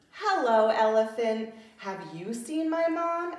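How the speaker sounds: repeated question to the elephant; little lion voice. Acted. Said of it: "asked Little Lion".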